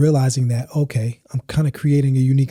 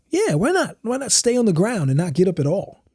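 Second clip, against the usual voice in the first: excited agreement; 7 semitones higher than usual. Retold or imitated. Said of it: "I was like".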